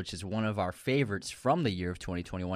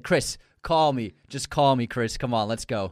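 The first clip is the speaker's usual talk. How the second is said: pleading call out; 5 dB louder than usual. Retold or imitated. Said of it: "and he said".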